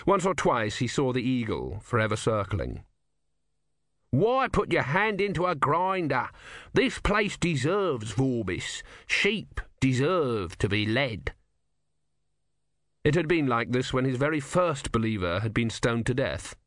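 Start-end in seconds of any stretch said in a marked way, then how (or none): 4.1-11.3 lightly voiced exasperated god; a hint of the sour tortoise god; Om's voice. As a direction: grumble it bitterly. Om speaks.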